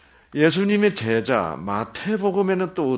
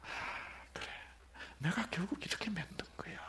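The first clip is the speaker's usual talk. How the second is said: whispered realization; 3 semitones higher, 18 dB quieter, faster than usual. Retold or imitated. Parent's realization quoted.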